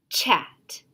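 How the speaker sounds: whispered Chat; student whispering the blended word; whispered answer. Shown as a demonstration. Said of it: "What word".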